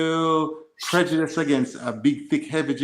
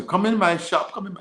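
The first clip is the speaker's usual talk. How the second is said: lightly voiced market seller, pitched up; quick higher-pitched retold sales call; vendor's call; 5 semitones higher than usual. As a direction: mimic a hawker beckoning tourists. Market vendors calling tourists in.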